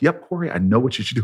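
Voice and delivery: measured, assured sage; wise and knowing. Retold or imitated. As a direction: say it as settled wisdom, without rushing. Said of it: "with this wise look".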